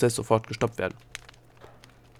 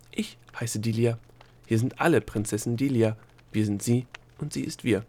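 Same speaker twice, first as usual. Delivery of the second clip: lightly voiced prim official; reply evenly after the outburst; unruffled Egozette; 2 semitones higher than usual. Bureaucrat correcting the abusive gnome, composed. Egozette replies primly to insults.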